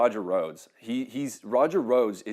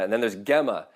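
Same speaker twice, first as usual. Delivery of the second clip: usual speaking voice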